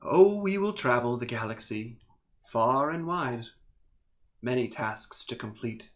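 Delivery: measured elemental being with long pauses; lightly voiced calm entity. Elemental double urges Plonk to come along, calm and deliberate. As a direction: lightly play a calm, insistent otherworldly being.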